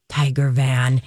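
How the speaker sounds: exaggerated Minnesota accent on "Tiger van". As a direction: lay the Minnesota vowels on thick. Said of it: "exaggerated Minnesota accent".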